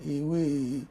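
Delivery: mock astonished outburst to wife; surprised. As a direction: act out the shock at home. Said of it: "come tell my wife say".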